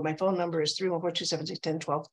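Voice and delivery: phone number rattled off; imitating a hurried voicemail number; whizzing by. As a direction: run the digits together without pausing. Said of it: "they just whiz by it".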